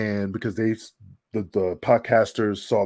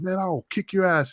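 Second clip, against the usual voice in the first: higher put-on threat; mock Kiwi threat; 8 semitones higher than usual. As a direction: toss out a cocky threat like Kiwi. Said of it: "he's like".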